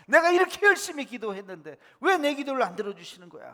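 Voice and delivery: loud acted complaint to God; 원망하는 항변. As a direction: protest like a frustrated, unanswered believer. Acted complaint about unanswered prayer. (크게 따져 묻는 원망 흉내)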